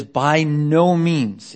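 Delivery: "By no means" drawn out slowly and firmly; emphatic refusal. Acted. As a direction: stretch "By no means" into a weighty denial. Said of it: "It's very, very emphatic".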